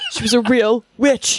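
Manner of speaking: said through real laughter; amused, laugh-broken defence; laughing protest. Real, not acted. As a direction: insist on it while cracking up. Laughing while defending a minor character.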